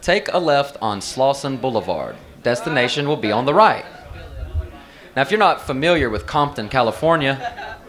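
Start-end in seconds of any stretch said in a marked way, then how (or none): 0.0-3.8 Siri. Acted. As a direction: read out directions with a hint of navigation voice. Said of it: "I'm listening to Siri tell me".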